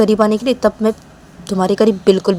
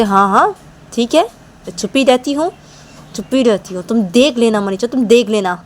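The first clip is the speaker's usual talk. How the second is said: lightly higher, sharp threatening voice; Nisha's retort; 5 semitones higher than usual. Acted. Nisha threatening Manisha in a fight, lightly raised voice. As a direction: warn her you'll show her, a touch raised.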